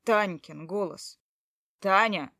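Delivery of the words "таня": loud call down the hall; calling her name again, loud. Acted. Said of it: "позвал ещё раз".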